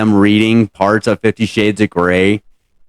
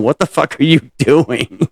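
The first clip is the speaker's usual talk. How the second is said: mock husband; 5 semitones higher, slower than usual. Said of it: "his husband's sitting there just going".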